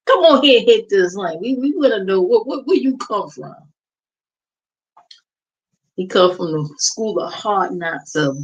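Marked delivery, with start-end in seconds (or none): 0.1-3.5 higher mock coaxing; mocking the trolls. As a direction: lure him in like a troll, hammed-up. Mimicking trolls luring him.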